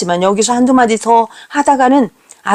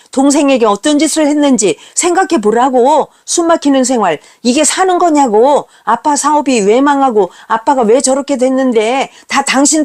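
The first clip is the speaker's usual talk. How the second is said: snapping at mother; 3 semitones higher than usual. Retold or imitated. Son blaming his mother for everything, angry and higher. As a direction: fling the blame at her. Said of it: "쏘아붙입니다".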